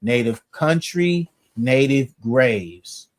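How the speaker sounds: slow, measured reading of a dictionary entry; dictionary entry read aloud to the group. Shown as a demonstration. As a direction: read the old definition out deliberately. Reads 1828 Webster entry aloud.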